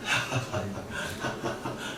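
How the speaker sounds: quiet low chuckle; soft breathy chuckle, kept low; laugh. Real, not acted. Teacher moving on to cosine, quiet chuckle.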